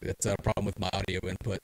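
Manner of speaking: distorted, clipping mic audio. Real, not acted. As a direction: voice clipping through a bad input. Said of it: "my voice is clipping badly still".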